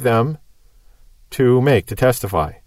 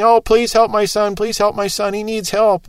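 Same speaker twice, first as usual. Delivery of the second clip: desperate father begging, pitched up; pleading father; 5 semitones higher than usual. Retold or imitated. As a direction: beg for your son's help in a raised voice. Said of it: "he's pleading".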